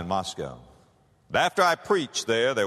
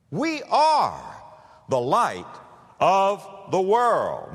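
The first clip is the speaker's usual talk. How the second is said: preaching climax; 8 semitones higher, 4 dB louder, much slower than usual. Real, not acted.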